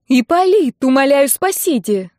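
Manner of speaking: high, loud desperate begging; passionate plea. A narrator's reading. Bride begs the groom to save her, high desperate plea. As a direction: cry out for rescue, voice soaring. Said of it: "С той страстью, с какой только могла".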